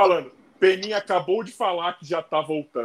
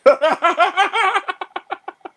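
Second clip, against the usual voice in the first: loud laugh; 12 semitones higher, 5 dB louder than usual. Real, not acted. Caller's request cracks him up.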